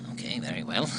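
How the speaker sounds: deep, dry ventriloquist dummy voice; a lugubrious puppet, grudgingly agreeing; very low, reluctant dummy. Acted.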